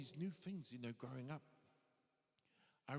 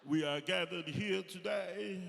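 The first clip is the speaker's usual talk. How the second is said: loud, drawn-out solemn proclamation; mock ceremonial announcement; 8 dB louder, slower than usual. Comedian opening the show as a ceremony, mock solemn. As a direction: intone it slowly and loudly, like an officiant.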